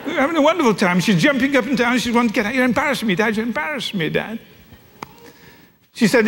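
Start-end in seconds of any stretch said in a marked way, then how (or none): 2.5-4.4 put-on higher, groaning teen complaint; mortified at dad; embarrassed teenage daughter. Daughter complains that her father is embarrassing her, higher.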